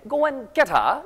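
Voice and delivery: rising British English line; British accent. Shown as a demonstration. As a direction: say it like a Brit, linked crisp t and no r. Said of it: "영국 용어에선".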